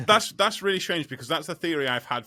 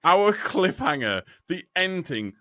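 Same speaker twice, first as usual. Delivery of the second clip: slow, higher, louder announcer build-up; mock dramatic host; 5 semitones higher, 4 dB louder than usual. Podcast host teasing the final story, hammed-up announcer voice. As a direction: hype it like a cheesy show host.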